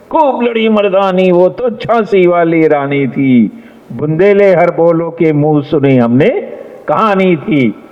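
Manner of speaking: stirring heroic verse with rising and falling modulation; spirited, expressive recitation. Shown as a demonstration. Judge showing students how to recite, with fervour. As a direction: declaim it with fervour, pitched high. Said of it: "So, like this you have to speak".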